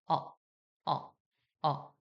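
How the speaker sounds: 어를 힘 빼고 살짝만; 강세 없이 가볍게 흘리는 어; light unstressed uh. Shown as a demonstration. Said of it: "요런 식으로 발음하거든요". (살짝만 내는 어 소리)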